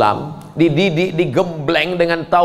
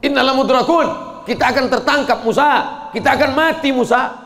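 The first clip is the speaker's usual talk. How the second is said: panicked cry; 8 semitones higher than usual. Acted. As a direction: cry out that we are caught. Israelites panicking.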